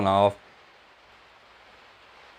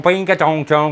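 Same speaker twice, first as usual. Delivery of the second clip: imitating a chime; 4 semitones higher, 4 dB louder than usual. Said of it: "You heard that device go".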